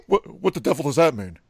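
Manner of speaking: a hammed-up old Hollywood accent; Mid-Atlantic impression. Redoing the Mid-Atlantic impression on request. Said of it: "Do the impression again".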